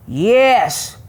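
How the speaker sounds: lightly voiced growling bear. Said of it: "Bear growled".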